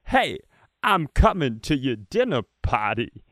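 a lightly voiced, clumsy Walken impression; bad Christopher Walken. Normal guy Keith at a dinner party, bad Walken impression. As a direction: do Walken badly on purpose, like an amateur. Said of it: "a bad Christopher Walken".

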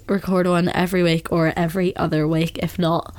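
nasal from a cold; blocked nose. Real, not acted. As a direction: talk through a blocked nose. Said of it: "I just sound so blocked up".

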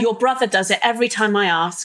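mock exasperated parent, pitch jumping up. Mum nagging her child about chores, exasperated mock rant.

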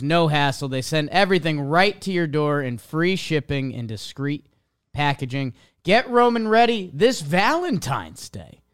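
upbeat sponsor read, slowing on the URL. Acted. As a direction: sell it like a host-read ad. Podcast host reads sponsor ad.

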